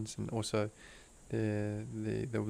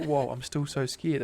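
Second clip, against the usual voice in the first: louder, slower, as if hearing "Whoa, I'm still so scared" for the first time; surprised realization; 4 semitones higher, 5 dB louder, slower than usual. Retold or imitated. Retelling a sudden realization to Jess, surprised. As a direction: let the truth hit you mid-sentence. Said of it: "as if it was, like, new information".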